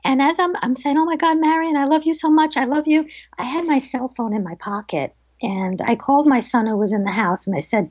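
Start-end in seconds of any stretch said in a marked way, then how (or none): 1.0-3.1 emotional outcry. Retold or imitated. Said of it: "I'm crying".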